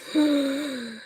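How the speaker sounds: high, drawn-out sigh; real sigh of relief. Real, not acted. Streamer done taking a jumper off, high sigh.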